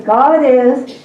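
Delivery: repeated classroom cue; prompting call. Shown as a demonstration. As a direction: call out God is each time. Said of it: "then you say what it is".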